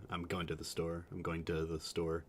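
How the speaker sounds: "going to" said as goin-tuh; Utah Mormon pronunciation. Shown as a demonstration. Streamer showing the accent in a sample sentence, "going to" run together. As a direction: reduce "to" to a short tuh. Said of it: "it's "gunta".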